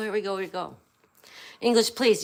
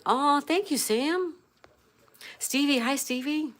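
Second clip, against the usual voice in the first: higher, sweet and soothing thank-you; mock soothing voice; 6 semitones higher, slower than usual. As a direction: play up the soothing voice for Sam. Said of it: "Sam said the voice is so soothing".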